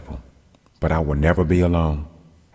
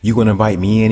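teasing; 4 semitones higher, 6 dB louder, faster than usual. A narrator's reading. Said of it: "being funny".

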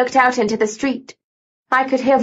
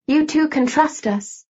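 slow, higher, gentle reassurance; 5 semitones higher, slower than usual. A narrator's reading. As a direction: reassure them gently and slowly. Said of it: "Her voice was gentle".

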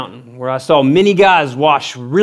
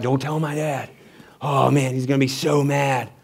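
worried; 4 semitones lower, 8 dB quieter than usual. Retold or imitated. Retold dread of dad finding out.

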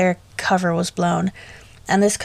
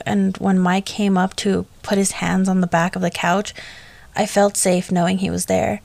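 ordinary delivery, nothing marked

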